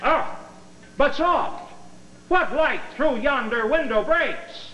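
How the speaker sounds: high, slow, overblown Shakespeare; hammy Romeo. Acted. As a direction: swoon through the line like a ham actor. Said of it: "this is a rehearsal now for Romeo and Juliet".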